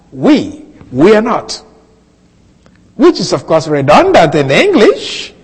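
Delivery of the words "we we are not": "We" set apart, then "we are not"; doubled emphatic WE. Shown as a demonstration. Preacher pointing out the repeated Greek pronoun, emphatic. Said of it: "Notice I use we twice".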